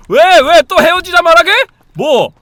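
high, loud yelled question; shouting back. Pretend. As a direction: yell it back. Yelling back at partner.

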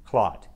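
"clot" ending on a crisp t stop; "clot" ending on a clean t, no th; exaggerated th practice. Shown as a demonstration. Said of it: "more minimal pairs to practice the T H sound".

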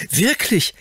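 put-on high, delighted child's cry; light up with joy; little lord thrilled about horses, high and glad; happy exclamation. A narrator's reading. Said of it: "rief Fauntleroy fröhlich".

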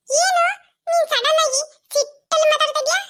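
high-pitched startled question; taken aback. Acted. Asking conscience why it turned angry, high startled voice. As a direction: ask in sudden high disbelief.

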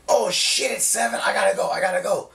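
imitating her alarm at oversleeping; mock panic. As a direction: act out her rushing to leave, half-hearted. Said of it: "Freaking out".

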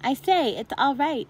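put-on girl calling down to friends below. A narrator's reading. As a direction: shout the good news down to them. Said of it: "to shout down to the others".

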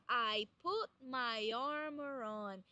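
"put" with the T swallowed; flapped T. Shown as a demonstration. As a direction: let the T of "put" almost vanish. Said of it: "Repara que os T's no inglês". (o T de "put" some)

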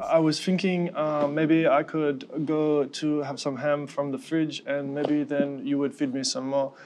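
slow, gentle asking dog voice; voicing the pit bull. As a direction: ask for ham sweetly as the dog. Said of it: "she talks like this".

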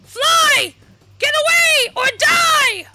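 high-pitched, gleeful mocking cries; hammed-up high jeering; taunting villain. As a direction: crow at the hero, cackling as you taunt. Acts out taunting game villain.

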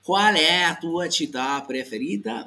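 slow mock learner's "¿Cuál es tu ciudad preferita?" with the words smeared; mispronounced Italian demo. Shown as a demonstration. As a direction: imitate a foreigner botching "¿Cuál es tu ciudad preferita?". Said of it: "estuviera diciéndote algo como".

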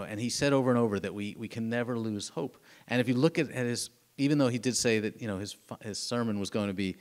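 ordinary talk

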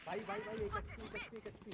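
urgent callout. Real, not acted. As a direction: alert the team in a hurry. Urgent low-health callout to team.

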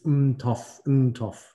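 "N T O F" with the N as its own syllable; "N T O F" as two syllables, a held N first; syllabic N. Shown as a demonstration. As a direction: hum the N of "N T O F" separately before the rest. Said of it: "like, a separate syllable".

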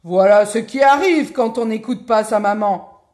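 very loud booming scolding; big bear's shout. A narrator's reading. Big bear scolds fleeing Goldilocks, booming shout. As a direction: bellow it after her as big bear. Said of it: "lui cria de sa grande voix".

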